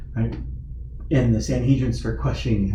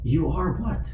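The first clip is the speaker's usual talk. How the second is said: high-pitched, stunned disbelief; acted shocked double-take; incredulous; 7 semitones higher than usual. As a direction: react as if you misheard something outrageous. Caiaphas's acted shock at answer.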